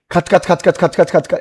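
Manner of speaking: quick, low run of chopping noises; rhythmic staccato scraping imitation; rasping sound effect. Shown as a demonstration. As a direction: imitate little teeth rasping away, low and soft. Imitating rasping teeth at work.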